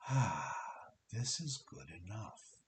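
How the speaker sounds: acted relieved "Ah", then easing off; sigh of relief. Coach voicing the client's sense of enough, relieved sigh. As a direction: let out a relieved sigh, settle into acceptance. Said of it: "that sense of just".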